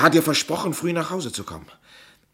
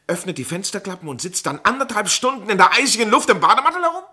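incredulous challenge; 7 semitones higher, 7 dB louder than usual. Acted. Suspect challenging detective's theory.

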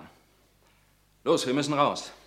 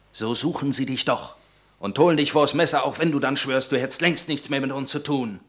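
rising, louder, pressing him hard; urgent warning; 4 dB louder than usual. Acted. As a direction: warn him he cannot escape. (eindringliche Warnung, lauter werdend)

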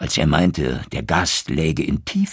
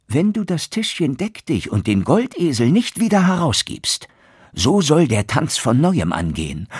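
higher, stern threat; threatening turner; 9 semitones higher, 4 dB louder than usual. Acted. Turner threatening the beaten innkeeper, stern and raised. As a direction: warn him hard, the beating can start again.

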